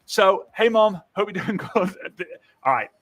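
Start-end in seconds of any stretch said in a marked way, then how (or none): 0.5-2.3 natural casual greeting. Shown as a demonstration. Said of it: "talk to your mum how you're gonna talk".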